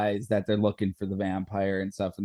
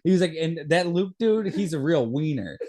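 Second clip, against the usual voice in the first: excited; 6 semitones higher than usual. Real, not acted. Excited defense of favorite character.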